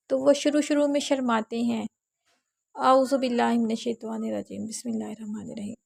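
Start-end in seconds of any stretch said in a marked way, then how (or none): 2.7-5.7 shy mumbled recitation. Retold or imitated. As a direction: recite it bashfully, swallowing the words. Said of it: "ایسے نہیں پڑھنا". (شرماتے ہوئے دبی آواز میں تلاوت)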